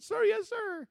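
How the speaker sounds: very high, loud boot-camp response; recruit's shouted reply. Retold or imitated. Recruit acknowledging the commander's warning, shouting. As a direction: snap back an obedient shout.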